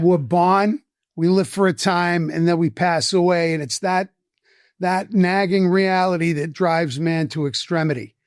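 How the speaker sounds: lightly voiced Boston accent; a profundity delivered in a Boston accent. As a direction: quote it with a Boston accent, "born" as "bahn". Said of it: "in a heavy Boston accent".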